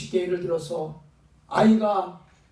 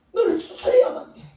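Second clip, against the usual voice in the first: firm mother; 11 semitones higher, 4 dB louder than usual. Retold or imitated. Mother firmly answers her child.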